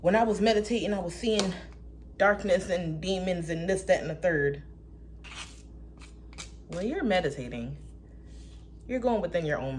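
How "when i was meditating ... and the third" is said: lightly mocking alarmed voice; a hint of a scandalized believer; ignorant critic. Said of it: "Someone said something ignorant".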